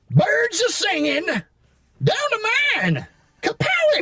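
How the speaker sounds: very high, slow cartoon miner building to kapowie; Dynamite voice. Shown as a demonstration. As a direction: stretch the words, then pop the kapowie. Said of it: "Hit us with some Dynamite then".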